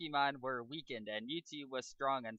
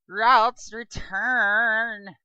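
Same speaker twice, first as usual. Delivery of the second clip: higher, louder battle command; commanding shout; 9 semitones higher, 13 dB louder, much slower than usual. Acted. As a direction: bark the move name at your Pokemon. Trainer recalls Pokemon.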